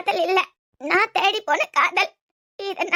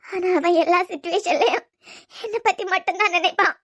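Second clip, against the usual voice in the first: tearful sobbing; 2 semitones higher, 6 dB quieter than usual. Acted.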